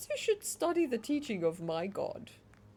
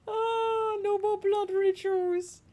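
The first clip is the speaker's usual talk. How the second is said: high, loud decree as a deity; commanding god; 8 semitones higher, 4 dB louder than usual. Pretend. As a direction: proclaim it like a new god. Answering as new god.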